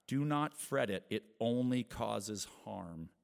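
loud, measured reading of a psalm; reading Psalm 37 to the congregation; scripture reading. Acted. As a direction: read it out to the church.

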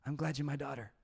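gentle, loving and unhurried; tender dad. Retold or imitated. Dad tells his daughter at bedtime, tenderly. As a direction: say it like tucking in your child. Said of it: "And then I say".

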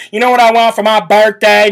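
a light Southern drawl imitation; a hint of a Southern accent, mocking; mild mock Southern accent. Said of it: "a little bit of a Southern drawl".

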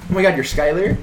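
high, starstruck gasp of recognition; excited fan. Pretend. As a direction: sound thrilled to spot a celebrity. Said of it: "Do it to me".

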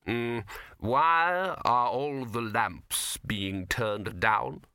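patrician. A narrator's reading. Patrician asks Dibbler at the show.

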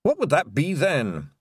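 slow, careful Scottish question; cautious wee Scots warrior. Acted. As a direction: ease into it warily, slowly. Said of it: "in a slow, careful voice".

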